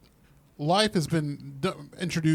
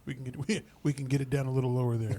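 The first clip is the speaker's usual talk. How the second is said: robot voice; 5 semitones lower, 7 dB quieter, slower than usual. Retold or imitated. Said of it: "He's like".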